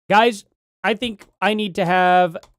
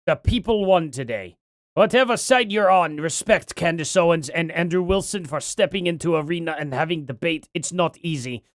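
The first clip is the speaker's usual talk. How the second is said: put-on a light Russian accent, barely there. Streamer reads a viewer's message in a light Russian accent. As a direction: read the chat message in a faint Russian accent. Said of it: "I'm giving him a Russian accent".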